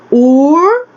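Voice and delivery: Urbana with each syllable opened wide and clear; teacher shows how many times the mouth opens; syllables spelled out. Shown as a demonstration. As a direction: count the mouth openings in Urbana. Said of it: "Quantas vezes eu vou abrir minha boca?".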